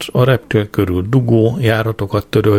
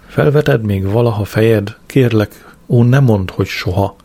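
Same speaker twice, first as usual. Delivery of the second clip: poem recital. Acted. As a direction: recite it like a mock-solemn ode.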